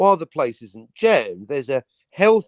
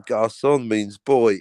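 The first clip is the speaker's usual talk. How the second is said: put-on Garçon means boy drawn out slowly, lingering on boy; slow savouring delivery; 4 semitones lower, slower than usual. Shown as a demonstration. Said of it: "I love that scene".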